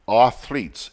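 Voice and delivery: "athletes" said as "arthletes", with an R sound; mispronounced athletes. Shown as a demonstration. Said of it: "we keep saying athletes".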